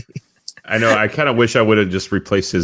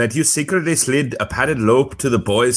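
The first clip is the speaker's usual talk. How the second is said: British Bulldog voice. Acted. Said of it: "Said in British Bulldog voice".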